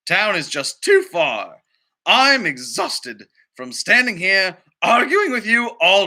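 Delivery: a fed-up, stubborn little pony voice; pony arguing with the farmer, stubborn; grumpy stubborn pony. Acted. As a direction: dig in your heels and refuse, like a cross pony.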